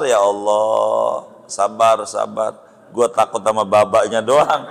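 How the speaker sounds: a hint of an exasperated old professor sighing to God; professor's lament. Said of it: "Gitu kata profesor". (menirukan profesor yang mengeluh minta sabar, suara lebih rendah)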